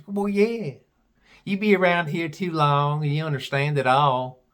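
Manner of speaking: imitated Southern gal; deep Southern accent. Gal reassures puzzled visitor, mock Southern accent. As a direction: answer in a put-on Southern accent. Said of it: "She had a real deep Southern accent".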